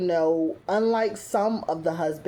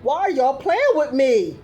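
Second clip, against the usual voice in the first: louder, laughing through the words; laughing mock bride; 6 semitones higher, 5 dB louder than usual. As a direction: tease as the bride asking where her husband is.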